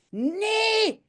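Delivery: put-on girl cries out in high dismay; shriek. Janneke sees her dollhouse wrecked, cries out high. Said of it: "gilt Janneke".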